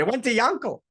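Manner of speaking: high, loud wail of horror; anguished disbelief. Retold or imitated. Teller repeating the ruined man's cry, wailing high and loud. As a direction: wail it as the worst possible news.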